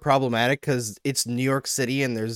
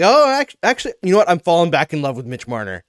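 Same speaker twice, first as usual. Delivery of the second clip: fickle fans won over; 3 semitones higher, 3 dB louder, faster than usual. Retold or imitated. Imitating fans warming to a player each year, mock delight. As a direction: play a fan pleasantly changing their mind.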